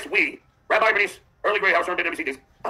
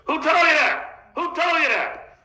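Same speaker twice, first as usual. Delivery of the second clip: much higher and slow, outraged; Pat Cooper voice; 8 semitones higher, slower than usual. Retold or imitated. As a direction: squeal it like an offended old comic. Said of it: "Pat Cooper voice".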